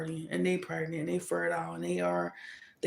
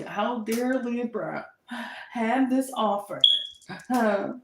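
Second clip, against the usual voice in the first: mock outrage; 3 semitones higher, much slower than usual.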